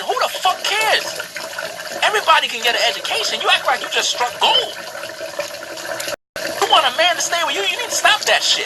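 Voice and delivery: loud, fast angry tirade; loud rant. Acted. Ranting at women who boast, loud. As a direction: hammer it home loudly.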